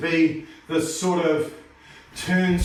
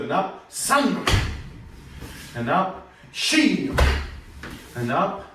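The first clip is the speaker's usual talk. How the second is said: counting in Japanese; 2 semitones higher, much slower than usual. Shown as a demonstration. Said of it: "opposite side".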